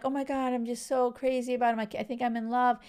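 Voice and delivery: put-on giddy crush talk; mock infatuation. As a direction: gush like someone newly smitten. Voicing someone newly infatuated.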